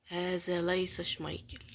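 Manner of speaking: slow whispered formal Arabic; mock formal whisper. Gamer declaring the card is not Schmeichel, slow mock-formal whisper. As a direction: announce it gravely in a hush.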